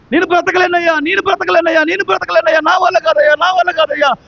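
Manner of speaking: hammed-up despair, begging over and over; mock wailing lament. Imitating a despairing believer crying to God, mock wailing. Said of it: "ఏడ్చేవాళ్ళు".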